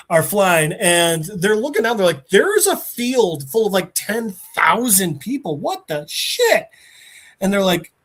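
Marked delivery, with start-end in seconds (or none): 2.3-6.7 higher-pitched mock amazement; imitated disbelief; astonished reaction. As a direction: act stunned, drawing out the last words. Plane people astonished at crowd below.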